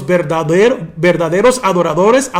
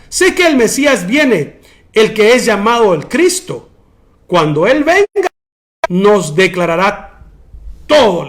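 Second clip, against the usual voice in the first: stuck-up, haughty; 5 dB louder than usual. Retold or imitated. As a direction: draw it out like a smug know-it-all. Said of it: "así como muy fufurufa".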